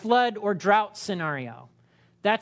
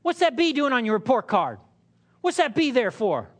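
louder, accusing parent; scolding parent; 4 semitones higher, 5 dB louder than usual. Acted. Parent scolding child over a report card, louder. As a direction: demand an explanation for the B.

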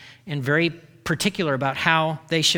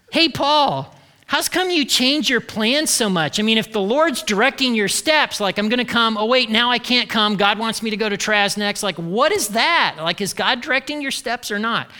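mock complainer; 3 semitones higher than usual. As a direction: needle him about his plans. Corinthians mocking Paul's changed plans.

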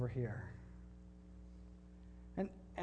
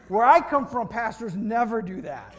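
higher, louder, slower exclamation; amazed stranger; 5 semitones higher, 11 dB louder than usual. Retold or imitated. Australian father amazed at the pastor, loud mock disbelief. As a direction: marvel at it. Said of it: "the guy's like".

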